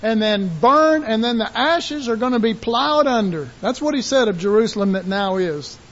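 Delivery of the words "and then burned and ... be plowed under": raised, stern pronouncement; God's judgment. Retold or imitated. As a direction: declare the coming destruction. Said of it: "his only promise is".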